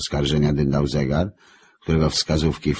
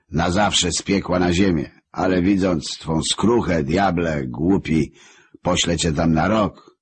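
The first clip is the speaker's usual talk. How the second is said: lordly sentence; 4 semitones higher than usual. Acted. Lucifer sentencing the repentant devil Marek, weighty and lordly. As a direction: pass judgment like a ruler on his throne.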